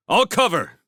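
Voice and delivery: high, loud assurance; combat shout. A narrator's reading. Felix offers covering fire to the scouts, shouting. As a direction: call it out over the fighting. Felix calls during firefight.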